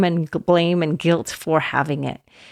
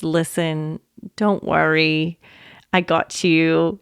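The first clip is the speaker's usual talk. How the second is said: gentle. Shown as a demonstration. Host shows how a loved one should comfort, gentle. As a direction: ease their worry kindly. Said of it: "if someone so gently says".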